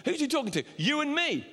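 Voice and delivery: high-pitched repeat; high again. Shown as a demonstration. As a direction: throw the question up high. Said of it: "I don't know why my voice went high then".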